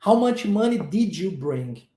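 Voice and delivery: slow, careful "How much money did you bring?"; slow model sentence. Shown as a demonstration. Teacher modelling the full question slowly.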